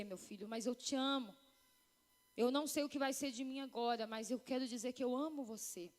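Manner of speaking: gently voicing the husband's last words to the boy; tender farewell to son. Husband saying goodbye to his two-year-old son, low and tender.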